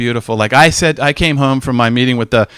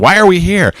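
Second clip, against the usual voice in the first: mock dismay; 6 semitones higher, 5 dB louder than usual. Acting own regret after arriving.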